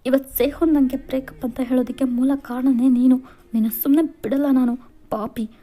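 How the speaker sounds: put-on a heartbroken girl lashing out at the rival; tearful anger. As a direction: blame him with rising fury. Crying girl blames rival, hits him.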